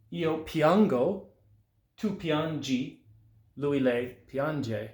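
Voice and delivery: each word drawn out slowly and clearly x0.5; careful, slow teacher model; slow pronunciation demo. Shown as a demonstration. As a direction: spell out the sounds slowly for learners. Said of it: "A little bit about the pronunciation".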